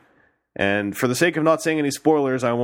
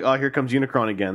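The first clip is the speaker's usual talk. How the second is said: mildly weary, said quicker; jaded; faster than usual. Acted. Fans greeting an overused villain, jaded. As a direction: toss it off as old news. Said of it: "made you go like".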